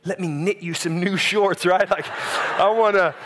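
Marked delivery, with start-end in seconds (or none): 0.0-1.7 mock gentle. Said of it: "I want my character to be like".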